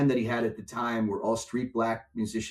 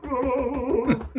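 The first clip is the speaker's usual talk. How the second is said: high frightened gasp; 12 semitones higher than usual. Retold or imitated. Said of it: "my heart's going".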